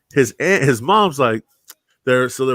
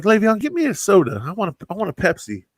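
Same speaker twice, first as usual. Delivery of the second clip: demanding mom; 8 semitones higher than usual. Retold or imitated. Mom demanding soda in story.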